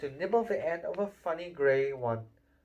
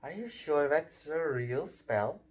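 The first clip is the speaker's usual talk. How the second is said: put-on bossy girl. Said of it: "She had a bossy sort of voice".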